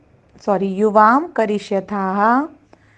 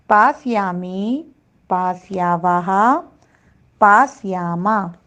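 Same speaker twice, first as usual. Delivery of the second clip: slow recitation. Shown as a demonstration. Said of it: "ये धातु इस प्रकार चलती है".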